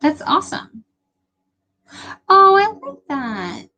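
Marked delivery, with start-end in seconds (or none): 2.3-3.7 higher and louder, voice catching on a sob; teary and moved. Real, not acted. Streamer moved to tears by a viewer's comment, crying. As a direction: choke up on it, real tears. Reacting to a touching viewer message.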